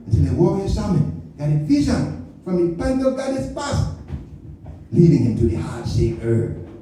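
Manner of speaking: put-on storyteller in an African accent; mock-epic African-accented narration. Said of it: "If you think my accent".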